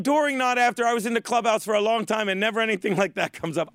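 lightly mocked Spanish accent; Big Papi. Host quoting a ballplayer's complaint, mock Spanish accent. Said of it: "I don't need to fucking talk like him anymore".

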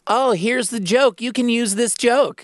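imitating a pushy fan; mock eager voice. People pitching jokes to comedian.

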